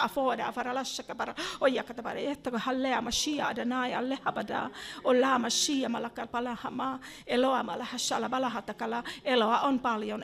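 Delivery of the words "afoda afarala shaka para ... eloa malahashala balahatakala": rhythmic glossolalia with strong bursts; fervent tongues prayer; speaking in tongues. Real, not acted. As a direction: let the syllables tumble out fervently.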